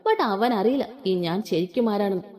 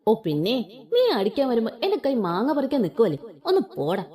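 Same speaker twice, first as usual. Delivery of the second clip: scoffing mock. Wife mocks husband's threat.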